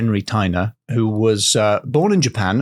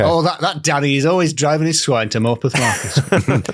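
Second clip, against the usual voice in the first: put-on light Yorkshire accent; a touch of Yorkshire gossip; 3 semitones higher than usual. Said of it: "I did that in a Yorkshire accent".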